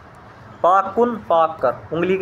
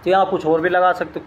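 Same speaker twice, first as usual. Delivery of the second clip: ordinary delivery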